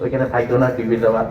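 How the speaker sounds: put-on gentle, low pleading with a darling child; affectionate coaxing. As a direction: coax a little child away from danger. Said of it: "সুন্দর করে আদর করে ডাকবে".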